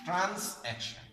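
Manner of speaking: "ট্রান্স অ্যাকশন" split as trans + action, pitched high; syllable-by-syllable. Shown as a demonstration. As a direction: sound out "ট্রান্স অ্যাকশন" in two separate chunks. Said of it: "syllable ভিত্তিক উচ্চারণটা আসলে".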